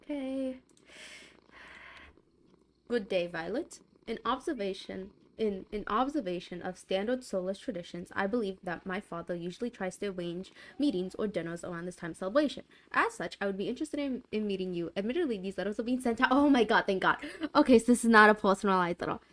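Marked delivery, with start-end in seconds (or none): 2.9-3.8 a lightly voiced deep, suave prince. Streamer reads the prince's greeting, lightly deep and suave. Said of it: "His voice is deep and suave". 4.1-16.3 a light hint of a deep, suave prince. Streamer reads the prince's letter, lightly deep and suave. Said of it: "His voice is deep and suave".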